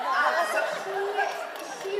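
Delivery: slow words still caught in laughter; laughing. Real, not acted. Speaker to the audience, recovering, still laughing. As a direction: push words through the laugh.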